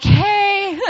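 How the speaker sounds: squeaky nervous greeting, pitch jumping up; nervous high hey. Retold or imitated. To the scowling tall man, a nervous high greeting. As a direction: blurt it out high and shaky with nerves.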